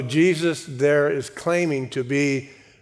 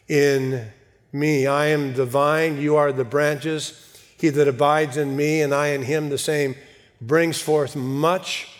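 scripture reading. Acted. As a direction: read the verses with reverent weight. Reads scripture passage aloud.

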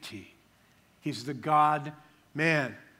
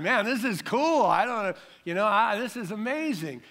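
higher-pitched, lightly acted wonder; mock amazement; 5 semitones higher than usual. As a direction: gush haltingly, as if lost for words. Acting out awed delight at mystery.

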